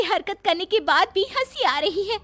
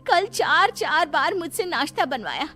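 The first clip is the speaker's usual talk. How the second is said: aggrieved protest building higher to an outburst; awakened anger; 4 semitones higher than usual. Acted. Overworked daughter-in-law finally protesting to the family, anger building. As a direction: let pent-up anger climb until it bursts. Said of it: "गुस्सा जाग उठता है".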